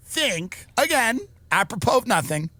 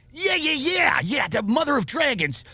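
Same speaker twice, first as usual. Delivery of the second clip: sudden recognition; 6 semitones higher than usual. Retold or imitated.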